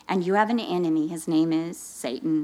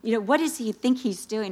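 indignant complaining; 3 semitones higher than usual. Retold or imitated. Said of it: "I'm complaining".

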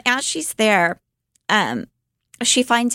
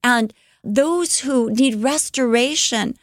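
higher, earnest voice for Betsy; a sister's bright hopeful vision, voiced higher; Betsy's vision; 4 semitones higher than usual. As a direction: lift the voice as the hopeful sister describing her vision.

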